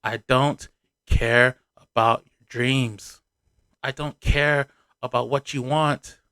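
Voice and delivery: calm, measured retold quote with slow pauses. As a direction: imitate him stating it calmly and unhurriedly. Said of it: "speak to you in the calmest voice possible".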